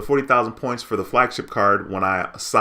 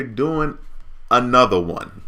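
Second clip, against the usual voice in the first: Hype DJ voice; 4 semitones higher, slower than usual. Pretend. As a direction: hype "another one" shout. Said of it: "That's my hype DJ voice".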